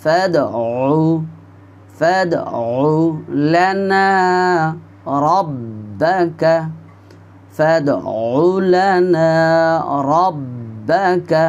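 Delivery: ফাদউ with a bouncing দ; careful slow recitation; echoing dal. Shown as a demonstration. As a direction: let the দ in ফাদউ echo downward. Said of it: "দাল সাকিন কলকলা".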